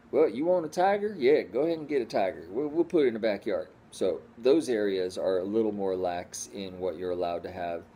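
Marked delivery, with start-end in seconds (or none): 0.1-3.7 high, loud, fast breezy offer; mock easygoing. Mocking lax states offering tigers, breezy and loud. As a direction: toss it off like anything goes. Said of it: "mocking lax states' attitude".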